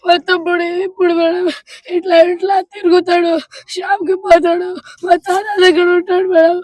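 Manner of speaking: crying and pleading, voice breaking. Real, not acted. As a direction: sob through the words to madam. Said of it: "ఉండు, ఉండు, ఏడవ పెట్ట". (ఏడుస్తూ వేడుకోలు)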